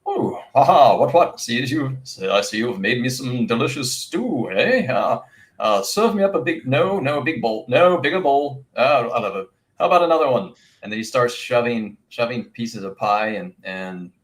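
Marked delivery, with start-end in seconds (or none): 0.1-10.5 high, loud, gobbling hare talking over the food; a greedy hare crowing for bigger bowls. Acted. GM voicing the hungry hare Jillian at the feast, high and loud.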